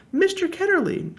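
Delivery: high, loud shout of recognition. A narrator's reading. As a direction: call out the name as memory returns. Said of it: "she shouted out".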